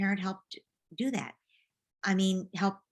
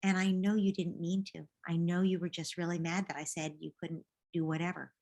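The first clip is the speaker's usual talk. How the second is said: gentle, understanding parent voice; calm parent talk. Pretend. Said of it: "later you can say to him".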